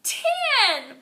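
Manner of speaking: high, loud cheering count; shouted count. A narrator's reading. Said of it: "we shouted".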